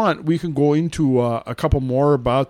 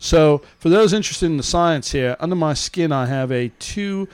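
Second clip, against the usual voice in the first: lightly put-on New Zealand reporter accent; reading as him, Antipodean accent. Host reading the implant article, loose New Zealand accent. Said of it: "I'm gonna read it as him".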